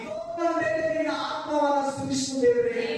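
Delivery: imitating an insistent, anguished prayer; re-enacted tearful plea. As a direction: cry out to God as if reliving desperation. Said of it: "ಬರೋ ಅಂತ ಅಳ್ತಾ ಇದ್ದೀನಿ".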